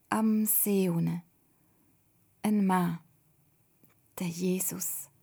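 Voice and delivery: word by word with long pauses; slow. A narrator's reading. Toda telling her father what she saw, slowly. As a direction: tell it haltingly, searching for each word. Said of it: "sagt sie langsam".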